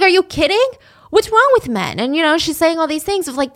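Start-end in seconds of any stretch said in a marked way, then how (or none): 0.0-2.0 high, outraged disbelief; imitating a friend fired up on her behalf; mock-furious friend; indignant outrage. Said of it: "She's getting pissed for Lil".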